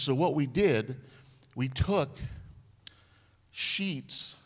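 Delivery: rising to a proud excited peak. Retold or imitated. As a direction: friend building to an excited boast about the fix. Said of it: "He was so excited".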